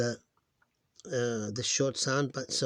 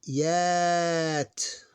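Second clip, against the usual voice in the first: whispered syllable; 5 semitones higher, 3 dB louder than usual. Shown as a demonstration. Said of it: "teacher sounds out syllables".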